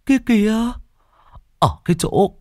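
insistent frightened arguing. A narrator's reading. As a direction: argue hard that the ghost is real. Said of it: "cố cãi".

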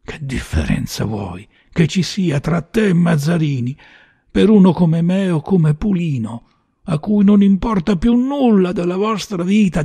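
high, heated rebuke; bitter, high-pitched outburst; angry tirade. Acted. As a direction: rail at him with rising pitch. Gunman rages at his target.

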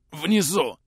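gasped out with little breath left; running out of air. Acted. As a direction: force it out on the last breath. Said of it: "смог выдохнуть Чуев".

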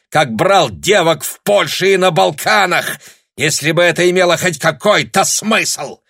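high, loud furious tirade; raging rant. A narrator's reading. Officer berates Tanya for daring to argue, shouting. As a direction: keep screaming, contemptuous and enraged.

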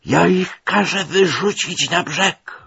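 high, slow, loud threat; angry shout. A narrator's reading. Angry captain threatening to throw passengers ashore, shouting. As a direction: yell it, red with anger. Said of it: "tym razem krzyknął".

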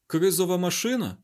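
high, loud incredulous question; shouted astonishment. Acted. David questioning the scientist about the machine, astonished cry. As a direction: cry out in disbelief. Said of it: "крикнув він".

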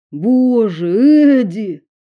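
shocked cry. A narrator's reading. Friends see wounded girl.

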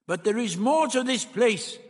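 high, swooping character voice; the Doctor, intrigued. A narrator's reading. The Doctor musing on the place.

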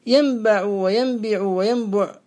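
ينبع وينبع وينبع said slowly as yanbaʕu, yanbiʕu, yanbuʕ; vary the vowel after b in ينبع: a, i, u; three vowel forms. Shown as a demonstration. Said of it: "بالفتح والكسر والضم".

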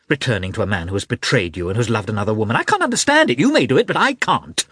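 furious shrill outburst; losing control. Acted. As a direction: lose all self-control at her sister. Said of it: "deprive Kitty of the last fragments of self-control".

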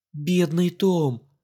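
slow, pitying sympathy; sympathetic. Acted. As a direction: coo over him in mock pity. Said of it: "скорчила сочувственную гримасу". (сочувственно, очень медленно)

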